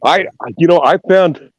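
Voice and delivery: glitchy robotic call audio; choppy, robotic bad connection. Real, not acted. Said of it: "you're sounding like a robot".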